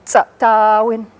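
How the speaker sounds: tsatawin with the middle a held long. Shown as a demonstration. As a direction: draw out the ta in tsatawin slowly. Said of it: "There's a long A there".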